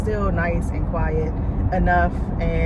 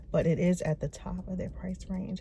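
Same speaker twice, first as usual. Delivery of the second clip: whispering; 10 dB quieter than usual. Real, not acted. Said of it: "I have to whisper".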